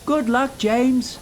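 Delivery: high, bright good luck; cheery farewell. A narrator's reading. Percy waving James off, high and cheery. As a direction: call him off with cheer. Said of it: "said Percy".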